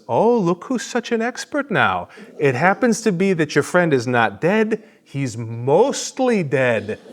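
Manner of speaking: swooping high mock-expert voice; Miracle Max. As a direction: do a playful bad impersonation of a sarcastic miracle worker. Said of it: "I'm gonna try to do the voice".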